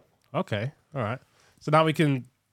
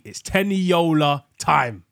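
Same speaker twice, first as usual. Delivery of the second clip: drawn-out announcer hype; slow, showy name call; hype intro; 4 dB louder, slower than usual. Acted. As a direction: stretch the name out like a ring announcer. Host hyping the guest's name.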